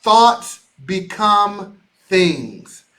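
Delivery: very slow, weighty sign-off; slow, emphatic catchphrase; signature closing line. Acted. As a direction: let each word land, drawn out. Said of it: "you know how we close".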